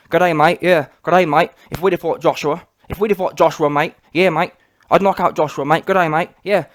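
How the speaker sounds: hammed-up Aussie "mate" accent, mocking their talk; Joseph Parker and Kevin Barry. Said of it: "Joseph Parker and Kevin Barry all talking about".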